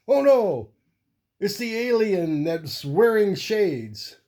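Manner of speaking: high, slow cartoon sun voice; sun character voice. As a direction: squeak it out like a panicked cartoon sun. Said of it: "and the sun's going".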